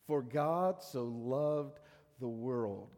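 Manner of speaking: For God so loved the world said very slowly, word by word; slow and deliberate. Retold or imitated. Sunday school teacher showing the boys, slow and deliberate. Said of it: "it doesn't matter how fast you can say it".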